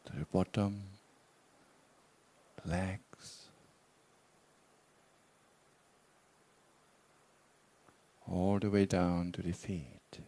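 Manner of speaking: measured meditation guidance with long pauses; guided meditation. Real, not acted. Teacher guiding meditators to relax and explore intentions, guided meditation. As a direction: guide them unhurriedly, leaving long silences between phrases.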